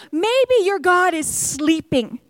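slow mocking taunt; sarcastic suggestion; smack talking. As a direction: rub it in, unhurried. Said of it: "you are smack talking".

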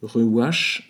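"Ruach" with an attempted Hebrew guttural ch at the end; self-admittedly poor Hebrew accent on "Ruach"; Hebrew pronunciation. Shown as a demonstration. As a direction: say "Ruach" the Hebrew way, two syllables, throaty ending. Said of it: "mon accent hébreu".

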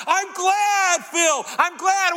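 high-pitched call across a storm; Jesus. Acted. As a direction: holler it through the gale. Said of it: "You will hear the voice of Jesus".

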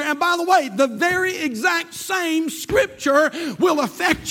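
driving, insistent sermon voice; full-force preaching. Acted. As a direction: hammer out each phrase to the congregation.

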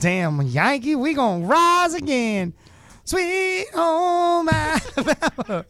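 high, loud, hammed-up Southern holler; mock Southern rebel. Host cursing Yankees in jest, mock rebel holler. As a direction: holler it like a cartoon Confederate, ending drawn out.

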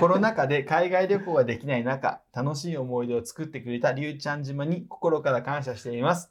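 even, measured read-aloud voice; reading a letter aloud. Real, not acted. Host reading out a trip report to the person it is about, read-aloud voice. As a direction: read it out like a written travel report.

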